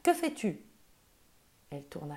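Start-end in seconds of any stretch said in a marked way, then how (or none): 0.0-0.6 much higher, shocked; alarmed question. A narrator's reading. Mother catches Polly eating, shocked. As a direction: demand it in disbelief. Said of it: "s'écria sa mère".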